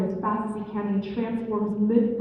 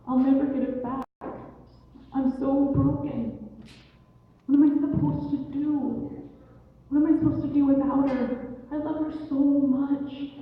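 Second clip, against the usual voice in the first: higher-pitched heartbroken lament; mild mock crying; 5 semitones higher than usual. Blue Jay grieving over his wife's body, lightly acted tearful lament. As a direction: wail it lightly, without real sobs. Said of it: "he's crying and he's crying".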